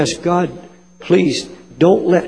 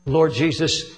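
solemn prayer. Real, not acted. Leads a prayer.

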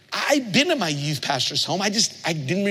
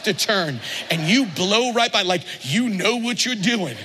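sarcastic trash talk; 2 semitones higher than usual. Retold or imitated. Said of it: "It never went like".

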